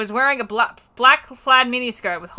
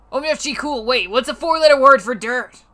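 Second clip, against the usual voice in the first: sexy voice; 3 semitones higher, 4 dB louder than usual. Acted. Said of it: "he asked in a sexy voice".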